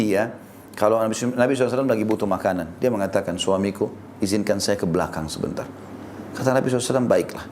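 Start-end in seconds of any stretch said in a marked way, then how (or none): 3.4-5.7 mildly lowered, courteous request; polite request. Retold or imitated. Wife asks her husband to excuse her, politely. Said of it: "Semua santun ini". 7.1-7.5 low, softened, courteous agreement; polite assent. Retold or imitated. Husband grants his wife's request, polite and low. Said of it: "Semua santun ini".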